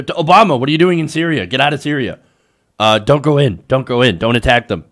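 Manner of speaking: retold loud, insistent warnings; imitating the president. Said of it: "because he said".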